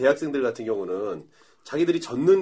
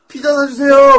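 loud high mock chorus of students; retold clamouring demand; 12 semitones higher, 11 dB louder, slower than usual. Students demand pizza from their teacher, clamouring. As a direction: call out like pestering pupils.

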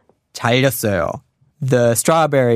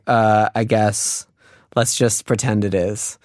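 grudging agreement; 3 semitones lower, slower than usual. Retold or imitated. Acted girl grudgingly humours joker.

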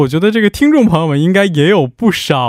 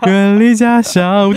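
broadcaster voice; 5 semitones higher, slower than usual. Shown as a demonstration. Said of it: "你突然哼出来".

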